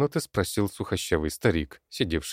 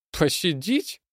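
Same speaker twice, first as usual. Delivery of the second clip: high mocking goblin question; goblin grumble; 12 semitones higher, slower than usual. A narrator's reading. Goblin mocks the old man's plea, high and sneering. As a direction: sneer the word back. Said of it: "буркнул Зелёный".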